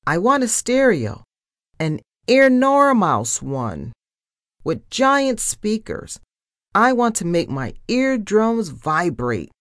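high, emphatic demands; excited, bossy wish list; shouting after someone. A narrator's reading. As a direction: keep calling out orders, stretching the big words. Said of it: "I shouted after her".

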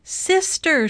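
high-pitched cry for a sister; shouted call. A narrator's reading. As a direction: call out in alarm, storybook style. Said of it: "shouted Baby".

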